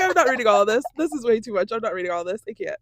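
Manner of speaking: loud exasperated refusal; fed up, throwing hands up. Retold or imitated. Reading a long text, exasperated.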